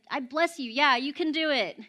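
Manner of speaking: a restrained pep talk; mild encouragement. Retold or imitated. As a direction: encourage them gently, holding some passion back. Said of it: "A little bit more passion".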